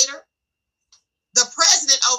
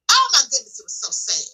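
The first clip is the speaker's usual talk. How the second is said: sad; 2 semitones lower than usual. Real, not acted. Lamenting a scam on churchgoers.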